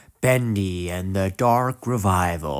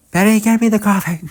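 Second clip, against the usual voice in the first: higher, louder, fast mock order; mock bossy boss; 10 semitones higher, 4 dB louder, faster than usual. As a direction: bark it out like a pushy boss at his secretary. Boss voiced ordering Betty around.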